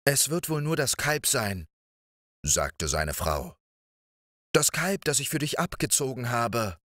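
lightly voiced wife talking him down; giant's wife. Wife covers for the children.

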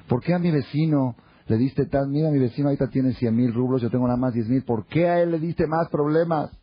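acted grievance, climbing high at the end; indignant complaint. Person in heaven reproaches God about the neighbour, indignant complaint. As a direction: protest like someone cheated, building to a high-pitched demand. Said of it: "va a llegar a reclamarle a Dios".

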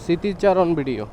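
muffled voice under a helmet; talking through a helmet visor; inside a helmet. Real, not acted. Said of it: "কারণ আমি helmet পরে আছি".

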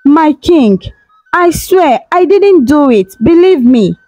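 kneeling servant begs the king, tearful; tearful plea. Acted. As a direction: beg through tears, voice lifted. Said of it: "crying her eyes out".

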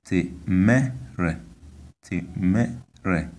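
temere, careful demo with pitch up on the second syllable; high middle tone. Shown as a demonstration. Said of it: "high tone is on the vowel of".

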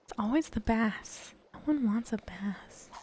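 a disappointed breathy whisper about the bass; whispered grumble at yet another bass. Real, not acted. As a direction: drop to an unvoiced hush, fed up.

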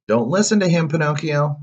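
high, loud warning shout; frantic high-pitched cricket yell. A narrator's reading. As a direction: shout urgently to stop a friend. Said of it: "shouted the cricket".

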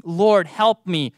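slow, earnest plea. Acted. Preacher repeats the woman's words as a slow plea. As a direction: say it slowly, like a prayer. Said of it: "these same words that this woman was using".

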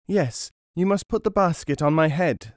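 lightly voiced little boy. A narrator's reading. Boy agreeing to carry dinner, childlike voice.

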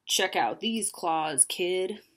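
slow rasping monster voice; raspy monster. A narrator's reading. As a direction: rasp it out slowly. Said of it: "a third voice under the bed rasped".

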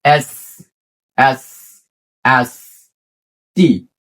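British আ with no r at the end; British non-rhotic R. Shown as a demonstration. Teacher showing the British way to say R. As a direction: drop the r, British style আ. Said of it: "ব্রিটিশদেরকে follow করেন তাহলে আ".

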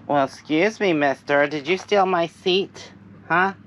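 playfully scolding a pet; mock indignant. Real, not acted. Teasing pet who took her chair.

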